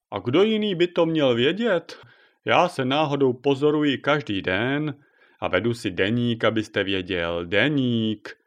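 lightly voiced proud old man, rising on Počkejte; a hint of a pedantic old man leafing through his diary; fussy old pensioner. Šimral boasts about his diary.

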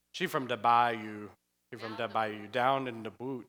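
imitating a Cajun bayou accent. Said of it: "talk to someone with a Cajun accent".

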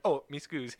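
fake Italian. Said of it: "and he's like".

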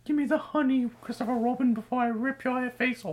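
high, menacing cartoon bear; growly bear voice. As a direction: threaten like a hungry bear. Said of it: "Winnie the Pooh?".

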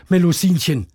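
a storybook dad calling his daughter to bed; Papa Wassermann. Acted. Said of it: "sagt Papa Wassermann".

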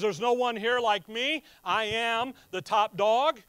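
boastful Lucifer. Retold or imitated. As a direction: strut it like the top dog of creation. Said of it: "He looks around creation and he says".

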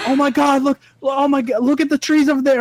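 high-pitched mock alarm; imitated freak-out. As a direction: mimic a panicky passenger pointing out danger. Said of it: "She's, like, freaking out".

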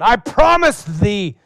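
a kid playing at old-fashioned vows; solemn son. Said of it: "one of my sons says to me".

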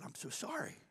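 whispered, high and breathless; stunned whisper. Retold or imitated. Pastor hearing of Ken's death, a stunned whisper. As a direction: barely get the words out in shock.

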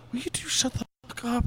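high, exasperated imitation; mock exasperation. Imitating Lori silencing the two friends, exasperated. Voicing woman annoyed by noisy friends.

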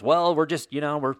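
mock-official reassurance, slightly slowed; glib police spokesman. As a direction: play the PR officer brushing it off. Police spokesman excuses the arrests.

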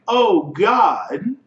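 lightly hammed-up alarm; mock panic. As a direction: play-act mild panic. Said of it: "he's panicking".

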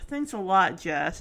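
low, understated irritated thanks; mildly irritated. Retold or imitated. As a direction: retell it with a touch of annoyance. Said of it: "She is irritated".

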